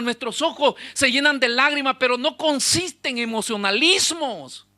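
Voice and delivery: loud, impassioned pulpit preaching; fervent preaching. Acted. Pastor preaching to the congregation about Christ's passion, loud and fervent.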